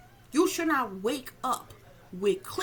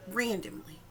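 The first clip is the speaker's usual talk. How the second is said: whisper. Real, not acted. Eerie aside in dream story.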